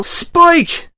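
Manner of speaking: sharp, loud, high yell of the name; angry shout. Acted. Unicorn stopping the dragon's story, an angry shout. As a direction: bark his name to shut him up.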